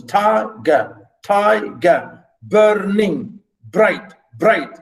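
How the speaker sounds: each syllable set apart, evenly; syllable-by-syllable reading. Shown as a demonstration. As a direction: split the words into separate beats. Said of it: "then you see the syllables".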